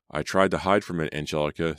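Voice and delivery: sobbing. Acted. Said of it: "Simon sobbed".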